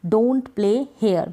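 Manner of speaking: very slow, each word set apart; slow dictation. Shown as a demonstration. Teacher dictating an English sentence to learners, very slow. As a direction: spell it out slowly for students. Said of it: "तो don't play here यानी कि यहाँ".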